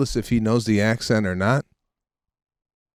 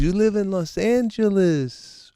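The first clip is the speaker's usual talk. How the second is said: blunt father; 10 semitones higher than usual. Retold or imitated. Father telling son the coach is paid, blunt. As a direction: imitate dad schooling his naive son in a high voice. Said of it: "He goes".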